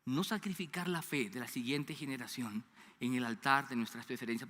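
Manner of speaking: ordinary talk, nothing marked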